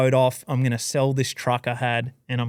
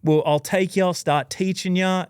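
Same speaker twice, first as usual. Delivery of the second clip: eager invitation; 6 semitones higher than usual. Retold or imitated. Fred inviting him home to learn fishing, higher eager voice. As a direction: fire him up with a generous offer. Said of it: "And he's like".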